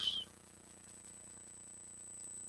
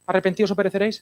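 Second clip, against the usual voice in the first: mock old preacher; 3 dB quieter, much faster than usual. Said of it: "ponerme pastor rancio siglo diecinueve".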